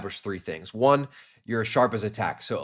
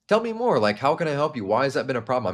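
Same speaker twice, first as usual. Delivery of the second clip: curious; 2 semitones higher than usual. Shown as a demonstration. Sales coach showing viewers a curious tone to prospects. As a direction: lean in and sound genuinely keen to hear more. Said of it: "Number two is gonna be curious".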